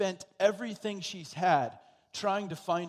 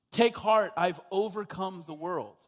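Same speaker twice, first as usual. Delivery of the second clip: emphatic exhortation; 4 dB louder than usual. Acted. Preacher repeats the promise.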